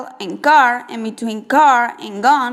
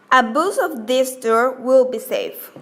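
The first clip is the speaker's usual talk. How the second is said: "Abuse of this tour will be safe" in a fall-rise tune. Shown as a demonstration. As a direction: let the pitch dip and turn on "safe". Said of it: "Fall rise".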